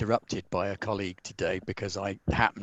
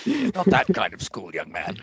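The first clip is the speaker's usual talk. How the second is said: stern teacher voice. Acted. Teacher scolding a pupil.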